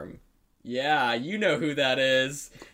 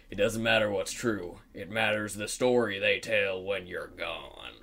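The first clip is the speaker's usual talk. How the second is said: low, measured movie-line delivery; trailer character quote; 5 semitones lower than usual. Retold or imitated. Quoting the trailer's closing line to a co-host, lightly acted low voice. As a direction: lightly imitate a film character, pitched down. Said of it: "then the guy was like".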